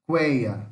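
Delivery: Cueia with the vowels run together in one syllable; demo pronunciation. Shown as a demonstration. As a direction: say Cueia with all vowels joined. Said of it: "Ó, tudo junto". (pronúncia de Cueia, tudo junto)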